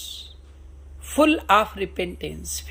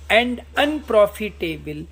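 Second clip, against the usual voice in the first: slow, drawn-out reading of Shakespeare; slow recitation; much slower than usual. Shown as a demonstration. Teacher reading Hamlet's soliloquy to students, slow solemn recitation. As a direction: recite each word slowly and solemnly.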